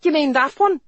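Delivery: high, loud name-calling; shrill mocking market woman; taunting. A narrator's reading. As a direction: jeer it at him. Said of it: "Maggie taunted".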